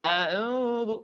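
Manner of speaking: drawn-out "A'udzu" with pure vowels; demonstrated recitation. Shown as a demonstration. Teacher models the ta'awud, demonstrated "A'udzu". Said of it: "saya akan contohkan".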